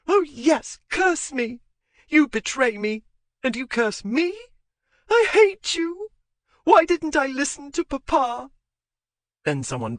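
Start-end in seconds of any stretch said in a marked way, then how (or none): 0.1-8.5 very high, loud raging cries; hysterical fury. Acted. Betrayed wife raging at husband, high and loud. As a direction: rage at him at the top of the voice.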